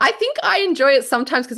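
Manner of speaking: high-pitched words through real laughter; laughing while talking. Real, not acted. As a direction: start the sentence still laughing. Laughing at the co-host's remark.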